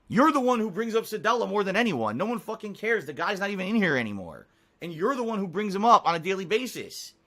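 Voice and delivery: heated rant at a chat troll; getting angry. Real, not acted. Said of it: "'cause I'm getting angry".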